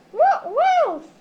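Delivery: loud gasp then awed cry; overwhelmed by a shilling; hammed-up astonished gasp; gasp of wonder. Gasps at a photographed shilling.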